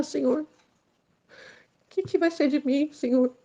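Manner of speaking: a choked, tearful plea, voice rising; desperate prayer. Retold or imitated. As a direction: beg God as if about to die. Choking, praying for her life.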